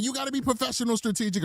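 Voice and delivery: lightly put-on high nagging voice; mock scolding. Aki telling the late host off, mock scolding. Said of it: "gonna be mad 'cause she's like".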